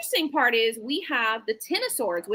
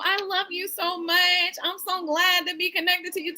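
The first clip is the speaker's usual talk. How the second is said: mock gushing; 5 semitones higher than usual. Quoting a commenter's earlier gushing.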